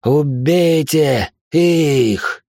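drawn-out roaring order; thunderous command. A narrator's reading. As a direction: drag out a furious bellowed command. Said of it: "от голоса, кажется, содрогнулись даже камни". (протяжный громовой приказ)

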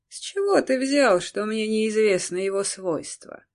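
выше и громче, с вызовом; бросить надменный вопрос; насмешливо. Acted. Король отвечает Акселю. (надменный вопрос)

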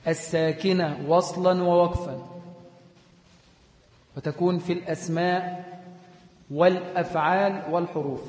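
slow, deliberate pace for note-taking; teacher reading a definition aloud for students to copy; slow dictation. Shown as a demonstration. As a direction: dictate it slowly so students can write. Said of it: "اكتب الساكنة وصلا ووقفا".

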